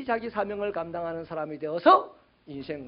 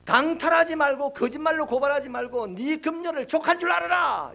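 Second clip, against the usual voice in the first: high, raised shouted orders; John the Baptist; 5 semitones higher, 4 dB louder than usual. Retold or imitated. John crying out to the soldiers, shouting. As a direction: call out each command, climbing to the end. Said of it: "이렇게 소리쳤어요".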